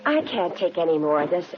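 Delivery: shocked denial. Acted. Suspect asked if she killed Laura, shocked and rattled. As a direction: recoil from the accusation, losing composure. Accused of murder, breaking down.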